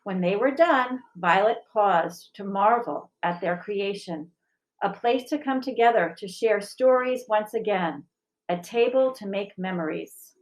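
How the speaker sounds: gentle picture-book reading, even and clear; story narration. A narrator's reading. Teacher reading a picture book to the school, gentle narration. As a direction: read it like storytime for children.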